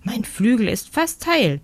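leicht gesprochene, hohe Meisenstimme; Meise, froh und zärtlich. Acted. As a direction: eine glückliche kleine Meise, nur angedeutet. Meise voiced by narrator. (die Meise dankt dem Waldzwerg, sanft und glücklich)

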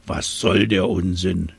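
grunting hippo. Acted. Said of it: "grunzte das Nilpferd".

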